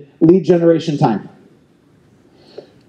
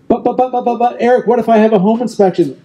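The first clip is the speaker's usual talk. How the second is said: higher-pitched stammered objection; mock protesting; 6 semitones higher, faster than usual. Coach mimicking an agent objecting to the schedule, mock protesting. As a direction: imitate an agent sputtering excuses.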